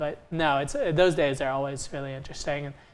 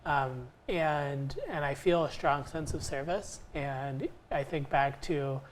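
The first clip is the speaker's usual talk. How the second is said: teary-eyed; 4 dB quieter than usual. Real, not acted. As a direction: voice softened, holding back tears. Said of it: "getting teary-eyed here".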